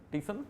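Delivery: questioning "टीशन?" as tishan with a rise; Bihari देहाती उच्चारण; rustic pronunciation. Shown as a demonstration. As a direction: ask "टीशन?" as tishan, lifting the end. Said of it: "अनपढ़ लोग जो है".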